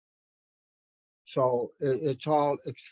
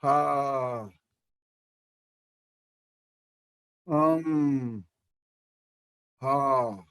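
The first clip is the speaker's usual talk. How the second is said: listener's ha; much slower than usual. Retold or imitated. Teacher imitating a listener's backchannel ha. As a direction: murmur ha as a listener would. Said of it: "would say".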